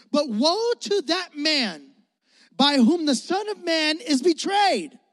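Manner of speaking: slow, emphatic declaration; exclamation. Shown as a demonstration. Pastor reading woe with an exclamation point. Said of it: "Exclamation point".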